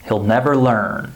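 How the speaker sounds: HE'LL reduced to sound like "hill"; unstressed HE'LL, no EE sound; short I contraction. Shown as a demonstration. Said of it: "Do you hear the I vowel sound".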